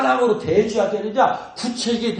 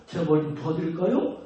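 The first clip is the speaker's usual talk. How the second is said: kind offer; 3 semitones lower, 5 dB quieter than usual. Shown as a demonstration. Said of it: "어려운 사람 있으면 가서".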